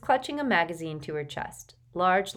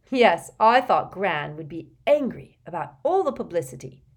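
Neville's voice; 8 dB louder than usual. A narrator's reading. Neville tells about his gran.

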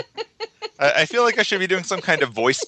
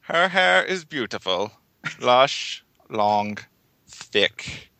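creep voice; slower than usual. Acted. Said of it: "You found the complete creep voice".

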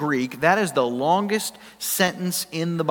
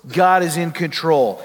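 firm and louder, GOD punched; preacher's bold proclamation; emphatic declaration; 4 dB louder than usual. Acted. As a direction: proclaim "God" boldly, falling. Declaring God's sovereignty.

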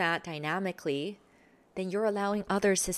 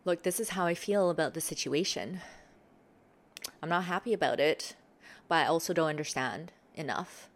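calm sincere; 3 semitones lower than usual. Shown as a demonstration. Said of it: "Something like that".

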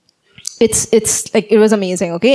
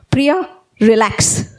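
1 calm self-talk; 2 semitones lower, much slower than usual. Retold or imitated. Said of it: "He said".

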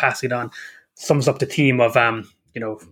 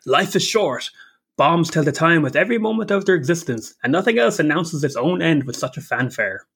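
lightly voiced villain, slightly raised and declaimed; Fat Man; 4 semitones higher than usual. Podcaster quoting a bomber's line, lightly put-on theatrical voice. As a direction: declaim it with a touch of theatrical pomp. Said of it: "Who said they didn't like Fat Man".

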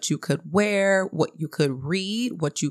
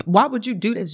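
higher-pitched mock scolding; mad grandmother; 4 semitones higher, faster than usual. Grandmother scolds daughter over the bib, mildly angry imitation. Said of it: "she started getting mad at the daughter".

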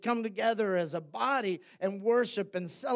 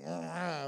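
grunt; 6 semitones lower, 10 dB quieter than usual. Shown as a demonstration. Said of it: "grunted like".

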